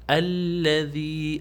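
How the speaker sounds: الذی started fresh as alladhi, slow; after a stop. Shown as a demonstration. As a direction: begin anew with الذی after stopping. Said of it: "stop کر لیا پھر آپ پڑھیں گے". (رک کر الذی سے شروع)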